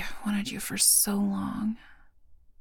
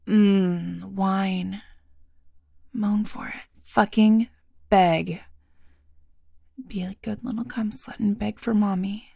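dominant whisper; 6 dB louder than usual. Acted.

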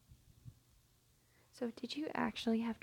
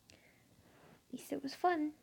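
slow, higher, hushed whisper; 6 semitones higher, slower than usual. Acted. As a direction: savour the words in a slow whisper. Soft afterglow remark.

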